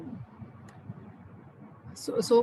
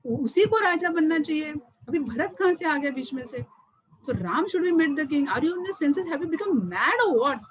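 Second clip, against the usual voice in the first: indignant protest; 4 semitones higher, much faster than usual. Retold or imitated. King protests against the unjust demand.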